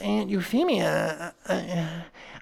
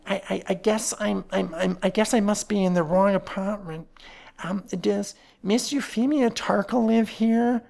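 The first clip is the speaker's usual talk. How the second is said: nervous stammer; 3 semitones higher than usual. Acted. Nervous nephew surprised by strangers, stammering. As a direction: trip over every word in fright. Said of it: "said the newcomer nervously".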